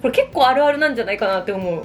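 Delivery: usual speaking voice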